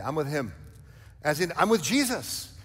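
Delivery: emphatic declaration. Real, not acted. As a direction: proclaim it with confidence. Preacher applies the quote.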